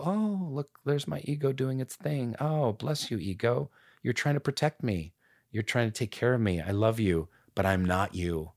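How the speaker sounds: soft, gentle words to your own ego; tender self-talk. Pretend. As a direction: soothe the ego like a child. Talking kindly to own ego.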